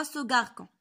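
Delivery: غاركون said with K in place of S; wrong hard-C reading. Shown as a demonstration. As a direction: show the mistaken K sound in غاركون. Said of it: "ما يمكنلاش نقراوها سو غاركون".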